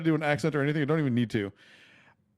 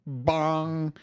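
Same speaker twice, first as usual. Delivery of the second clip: bong sound effect; 5 semitones higher than usual. Shown as a demonstration. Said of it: "Yes, I made that sound effect".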